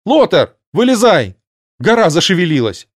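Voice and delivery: high panicked shout. A narrator's reading. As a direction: yell a warning down the hole. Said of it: "Гарпия прокричала в отверстие".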